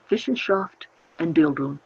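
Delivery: "Wissenschaft" and "Bildung" in a German accent; German pronunciation. Shown as a demonstration. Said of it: "correct my German accent".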